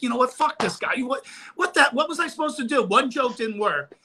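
indignant inner rant. Retold or imitated.

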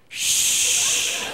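a hushed shh to the camera; shushing the camera crew in a whisper. Retold or imitated. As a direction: shush like sharing a secret. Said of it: "I go".

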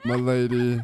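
slow, solemn blessing; wise sage. Acted. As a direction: bless her like an ancient sage. Slow mystic farewell to NPC.

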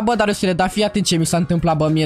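low, gloomy put-on lament; mock despair. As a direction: play hopeless, voice sunk low. Fakes despair before driving into water.

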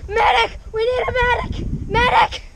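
high mock battlefield yelling for medic; man down shout. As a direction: scream for a medic like a soldier down. Calls for medic over pin.

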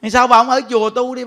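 usual speaking voice

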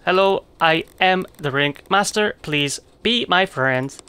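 stiff robot voice, slow at the end; mock the robot speech. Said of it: "talking like a freaking robot".

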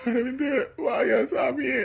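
drawn-out tearful call to son; slow pleading cry. Acted. Father calling his son in hospital, slow tearful plea.

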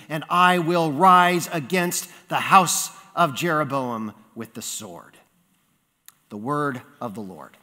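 measured, solemn reading aloud; deliberate public Bible reading; scripture reading. Acted. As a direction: read the prophet's words formally to the congregation. Reads scripture aloud to congregation.

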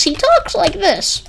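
high, slow mimicry of a light voice. Describing old boss's voice to viewers, high light voice. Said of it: "really, really light voice".

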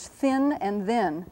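"thin" and "then" said slowly and distinctly; careful minimal pair, voiceless th in "thin", voiced in "then"; contrasting th sounds. Shown as a demonstration. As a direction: draw out thin, then then, each th clear. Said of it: "they don't start with the same sound".

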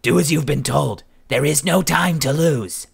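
high, loud and firm, slowing at the end; urging a shocked friend into action; firm command. A narrator's reading. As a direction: order him to move, no argument. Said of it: "Cadogan said sharply".

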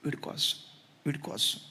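hushed, breaking whisper of a mother; whispered lament. Retold or imitated. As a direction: whisper it, spent with grief.

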